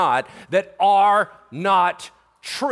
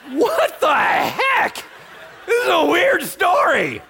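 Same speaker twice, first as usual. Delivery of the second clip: high, loud, drawn-out disbelief; loud, incredulous outburst played for laughs; comic bewilderment; 10 semitones higher, 4 dB louder, slower than usual. Real, not acted. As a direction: cry out at how bizarre this is. Reacts to bizarre story.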